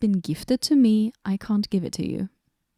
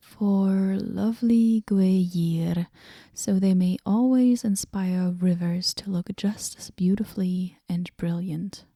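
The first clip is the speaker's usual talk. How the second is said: pompous inscription. Acted. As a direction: read the old dedication like pompous verse. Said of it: "Who do I know that speaks so pompously?".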